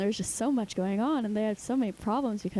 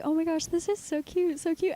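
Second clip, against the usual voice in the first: high-pitched cooing delight; gushing; 8 semitones higher than usual. Retold or imitated. Mom and daughter watching the movie, gushing. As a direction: gush over it, imitating a charmed viewer. Retold gushing before the twist.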